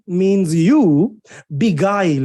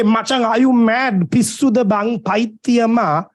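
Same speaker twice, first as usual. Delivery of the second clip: raised-pitch incredulous telling-off; mock scolding; 4 semitones higher than usual. Telling off a friend who yells at a girl, mock scolding. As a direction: act out scolding a mate, pitch up.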